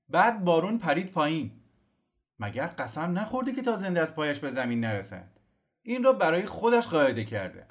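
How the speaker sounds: high, animated gossip; gossiping townsman. Acted. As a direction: tattle eagerly about the baron. Gossiping idlers in the square.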